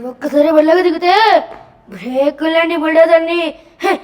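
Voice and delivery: a hint of a mass hero's swagger; Balayya dialogue. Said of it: "బాలయ్యని imitate చేయాలి".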